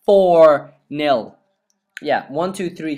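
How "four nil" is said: louder, punching the score home; emphatic repeat. Real, not acted.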